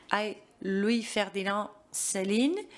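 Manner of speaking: ordinary delivery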